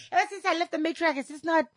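high-pitched mock bafflement; acted helpless complaint; bewildered sufferer. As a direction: plead confusion, pitched high. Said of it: "You're like".

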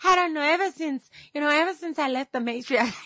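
high-pitched mock complaint; acted puzzled whining; bewildered sufferer. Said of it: "You're like".

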